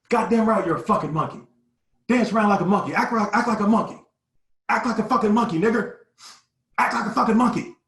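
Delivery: high, loud hateful yelling; going off on us. Retold or imitated. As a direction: scream the order at the boys. Gunman ordering boys to act.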